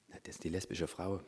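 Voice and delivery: soft, small voice, playing sheepish; meek quiet answer. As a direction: answer softly like a caught child. Meek replies to the Holy Spirit.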